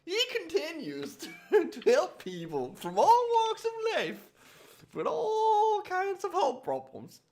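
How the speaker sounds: put-on an American faking an Australian accent and losing it; wobbly put-on accent. Reading a chiropractic bio aloud to friends in a wandering mock Australian accent. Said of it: "How do you like my accent?".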